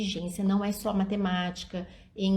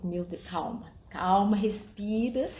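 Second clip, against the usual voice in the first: put-on calming a child; slower than usual. Shown as a demonstration. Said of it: "Sabe aquelas coisas assim que eu falo".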